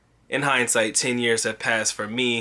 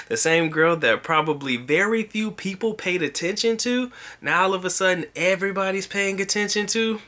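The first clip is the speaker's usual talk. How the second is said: higher-pitched, incredulous run of questions; taken aback; 6 semitones higher than usual. Acted. Vlogger voicing his reaction to an old classmate's transformation, taken aback. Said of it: "sometimes it takes you back".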